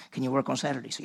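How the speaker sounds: calm, offhand boss. Retold or imitated. Low-key Mr Hartman asks.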